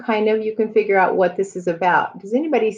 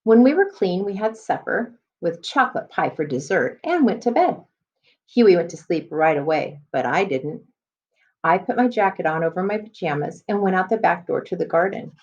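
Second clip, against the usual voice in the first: put-on reading to children. Teacher reading a chapter book to students, storybook voice. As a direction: clear storybook read-aloud.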